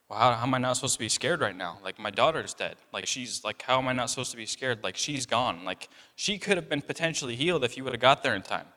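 hurried plea of a frightened father; distressed father. Retold or imitated. Voicing grieving Jairus.

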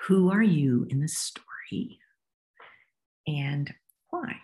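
whispered question. Shown as a demonstration. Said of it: "you ask them a couple questions".

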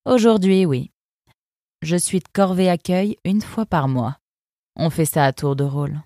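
a cool, sardonic river guard; fox guard's voice. Acted. Eunice sizing up the arrivals, lightly voiced sardonic fox. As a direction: speak down to the newcomers, unimpressed. Eunice explains her duty.

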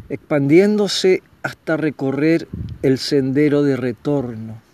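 measured, solemn reading with long pauses. Acted. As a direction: read it like a spiritual meditation, unhurried. Reads a formal spiritual monologue. (lectura solemne y pausada)

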